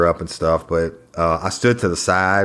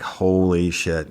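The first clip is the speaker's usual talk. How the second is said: drawn-out, stunned oath at usual pitch; stunned reaction; much slower than usual. Retold or imitated. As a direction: let it out slowly in mild disbelief. Retold stunned reaction in court.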